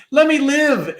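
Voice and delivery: high, loud frightened plea; pleading. A narrator's reading. Henry Hank begs for his life, high and pleading. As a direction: beg for your life. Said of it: "added Henry Hank".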